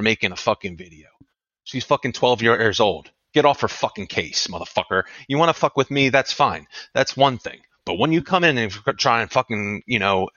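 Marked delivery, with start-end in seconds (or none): 1.6-9.2 angry protective parent; heated rant. Real, not acted. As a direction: warn them off, worked up. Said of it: "I've been fucking heated all goddamn day".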